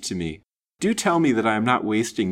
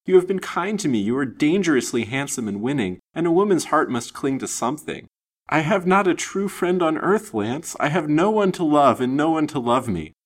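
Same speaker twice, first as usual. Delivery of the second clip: high, impassioned torrent; wild entreaty; 6 semitones higher, 5 dB louder than usual. A narrator's reading. Lonely lady pouring out her love to Lance, wild entreaty. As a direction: plead your case urgently and eagerly. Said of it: "she answered wildly".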